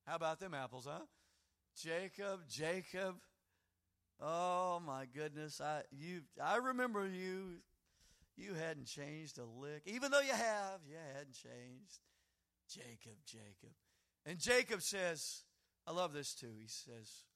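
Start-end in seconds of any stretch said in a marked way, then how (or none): 1.8-13.7 fond father. Acted. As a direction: smile and shake your head over him. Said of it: "like a father with a slight grin".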